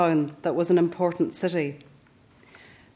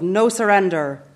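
quoted rallying cry, a little louder; mildly raised, defiant slogan; defiant shout; 2 semitones higher, 5 dB louder than usual. Retold or imitated. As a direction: ring it out like a restrained shout. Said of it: "with its defiant shout of".

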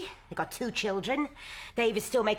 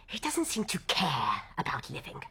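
whispered despair. Acted. Grim confession about husband.

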